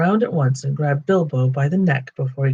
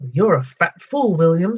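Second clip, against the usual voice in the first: quarrelling troll; 3 semitones higher, 3 dB louder than usual. Acted.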